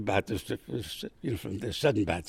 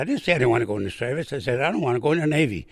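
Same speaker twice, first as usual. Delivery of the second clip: protesting; 2 semitones higher, 4 dB louder, faster than usual. Retold or imitated.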